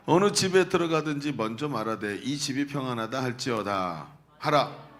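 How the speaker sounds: measured solemn Bible reading; formal scripture recitation. Acted. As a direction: read the passage aloud to the congregation.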